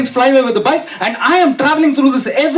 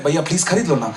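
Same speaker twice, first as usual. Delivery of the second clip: put-on pleading kid; 6 semitones lower, 4 dB quieter, much faster than usual. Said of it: "He was like".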